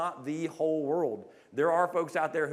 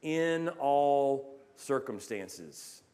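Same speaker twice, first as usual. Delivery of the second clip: slow solemn quote; 2 semitones lower, much slower than usual. Retold or imitated. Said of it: "And he says".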